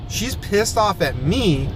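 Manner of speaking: slow, emphatic "she's pissed off at me"; emphatic insistence. Real, not acted. Driver insisting the passenger's anger is aimed at him, emphatic "me". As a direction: lean hard on "pissed off at me", drawn out.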